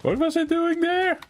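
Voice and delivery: words stretched through a yawn. Real, not acted. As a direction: talk while yawning.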